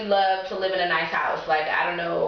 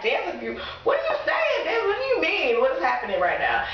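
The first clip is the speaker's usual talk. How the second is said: panicked friend, pitch shooting up; baffled shout; 8 semitones higher than usual. Retold or imitated. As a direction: shout it in total confusion. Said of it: "he was so confused".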